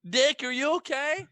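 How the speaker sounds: high, put-on worried falsetto; rising mock concern; Cherry calling out. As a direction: ask anxiously in a mock damsel voice. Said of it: "Poor Cherry".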